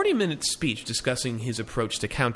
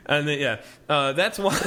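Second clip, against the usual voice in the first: put-on Borat accent. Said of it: "sounding like Borat".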